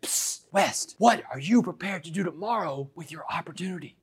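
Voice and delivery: hushed whisper after lights out. Retold or imitated. Cellmate leaning down from top bunk at night, whispering. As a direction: keep it secret from the guard, softly.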